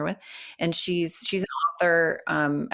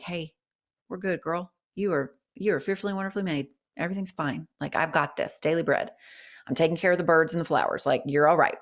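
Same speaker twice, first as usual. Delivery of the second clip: gentle reassurance; faster than usual. Retold or imitated. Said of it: "Holy Spirit just being like".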